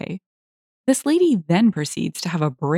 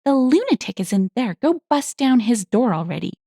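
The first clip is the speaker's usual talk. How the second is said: agitated, raised-pitch demand; mild acted scream; 5 semitones higher than usual. Angry lady ordering officers to act, mildly screaming. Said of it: "this lady is screaming at them".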